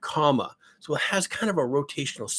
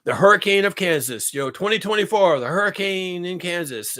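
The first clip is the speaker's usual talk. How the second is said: lightly raised, sing-song mock hype; mocking the chat; 5 semitones higher, 4 dB louder than usual. Imitating viewers hyping the joke, lightly mocking. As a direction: parody the viewers' joke slogan. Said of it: "And so they were joking".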